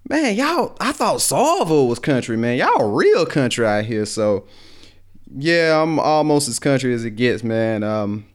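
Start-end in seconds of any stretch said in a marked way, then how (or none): 0.1-4.1 mocking friends' joke. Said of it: "everybody used to have jokes like".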